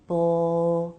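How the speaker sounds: "Bl-" held on the L, tongue already up; BL cluster. Shown as a demonstration. Teacher showing the cluster, "Bl-" with a held L. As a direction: release the B straight into a long L in "Bl-". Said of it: "tip of the tongue is right at the roof".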